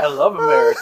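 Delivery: put-on high, loud Hispanic accent, breaking into laughter; mock Hispanic accent. Older Luffy proclaiming to the listener, laughing Hispanic accent. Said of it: "My dog talking about".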